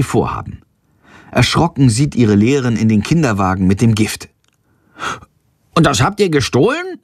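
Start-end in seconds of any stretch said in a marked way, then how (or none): 5.7-7.0 besorgte Frage, höher gestimmt; besorgt. Acted. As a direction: eine Lehrerin, die sich erschrickt und sorgt. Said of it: "fragt sie besorgt". (Lehrerin fragt ihre Schüler besorgt)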